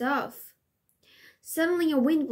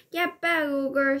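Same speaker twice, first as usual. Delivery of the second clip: shouted; 3 semitones higher, slower than usual. Acted. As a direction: yell at the ogre to back off. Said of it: "shouted Flynn".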